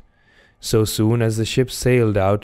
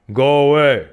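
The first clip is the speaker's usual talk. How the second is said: higher-pitched annoyed harpooner; Queequeg; 5 semitones higher, 4 dB louder, faster than usual. A narrator's reading. Harpooner shaking himself free of the stranger, annoyed. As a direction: send him off as the harpooner. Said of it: "said Queequeg, shaking himself".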